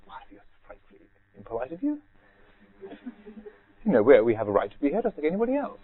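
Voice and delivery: indignant lady. Retold or imitated. Woman retorting to the monk.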